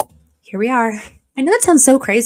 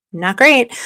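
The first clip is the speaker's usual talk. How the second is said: louder emphatic repeat; 2 semitones higher, 5 dB louder than usual. Real, not acted. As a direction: say it out loud this time, insistent.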